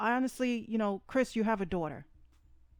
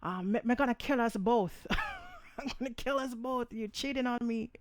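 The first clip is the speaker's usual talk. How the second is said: mock West Indian accent, raised a little; 4 semitones higher than usual. A singer in the car, mock West Indian accent. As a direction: play the jealous girlfriend in a West Indian accent. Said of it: "I'm gonna use my West Indian accent".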